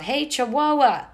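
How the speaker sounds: loud, high, slow yell to draw the monster. A narrator's reading. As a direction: shout it out to grab the beast's attention. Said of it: "and yelled".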